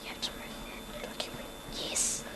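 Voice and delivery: unvoiced prompting whisper. Real, not acted. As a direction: whisper it off-mic. Prompting a reader off-mic.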